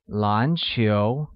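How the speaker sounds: 篮球 with both syllables rising; teacher's clear model of 篮球, two rising tones; mid-rising tones. Shown as a demonstration. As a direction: start each syllable of 篮球 low and lift it. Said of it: "uses a mid-rising tone on both".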